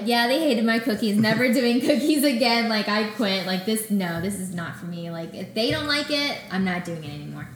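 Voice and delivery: exasperated outburst. Retold or imitated. To the host, about the silent company: loud fed-up outburst. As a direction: throw up your hands and quit, loudly. Mock despair over no reply.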